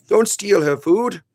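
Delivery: slow, high-pitched telling-off; pet scolding. Real, not acted. Owner telling Mister Bunny off over food, chiding.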